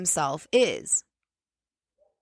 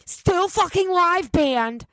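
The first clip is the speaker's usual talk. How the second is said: slow, higher, stretched-out "fucking" in disbelief; drawn-out emphasis; 10 semitones higher, much slower than usual. Real, not acted. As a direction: spell out the outrage slowly. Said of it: "slow emphatic complaint".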